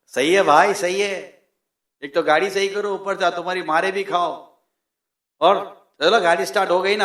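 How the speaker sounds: good-humoured mock complaint, no real laugh. Knocked-down friend joking about the bump, lightly laughing it off. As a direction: tease him lightly instead of fighting. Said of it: "उल्टा हंसने लगा".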